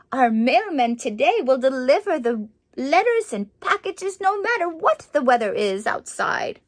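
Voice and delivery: story narration. A narrator's reading. Reads picture book aloud.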